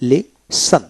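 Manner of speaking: লিসন said li-son with no t; silent T. Shown as a demonstration. Teacher after the silent letter rule, লিসন without any t. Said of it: "তীর উচ্চারণ হবে না".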